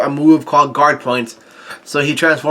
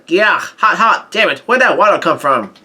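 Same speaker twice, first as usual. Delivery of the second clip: higher-pitched yelps, no real volume; mild mock yell; 3 semitones higher than usual. Prometheus yelling in pain as the water hits, mild mock yell. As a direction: imitate a burning character's outcry. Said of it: "He yells out".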